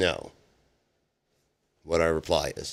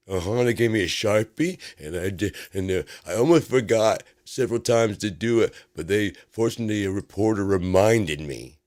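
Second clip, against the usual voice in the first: put-on little kid voice; 4 dB louder than usual. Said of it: "sounds like a little kid".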